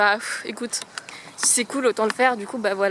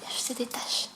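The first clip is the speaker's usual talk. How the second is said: talking to a dog; 5 dB quieter than usual. Real, not acted. Soft talk to the dog.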